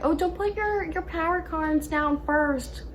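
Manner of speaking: high-pitched mocking quote; slow, high imitation of know-it-all players; naysaying other players. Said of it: "I know people always say".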